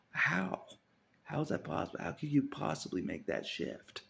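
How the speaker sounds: high, loud disbelieving questions; incredulous. Real, not acted.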